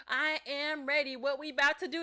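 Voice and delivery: lightly voiced raring-to-go friend; eager homegirl. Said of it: "homegirl be like".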